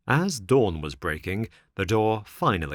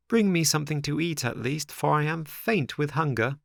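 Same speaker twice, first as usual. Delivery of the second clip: higher, weak begging tone; hungry puppet boy; 7 semitones higher than usual. A narrator's reading. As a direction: beg for food, faint with hunger. Pinocchio begging.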